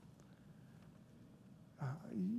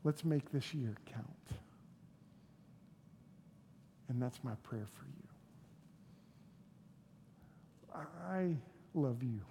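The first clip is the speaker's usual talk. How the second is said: soft pastoral appeal; 5 semitones lower, 9 dB quieter than usual. Real, not acted. Soft personal appeal to congregation.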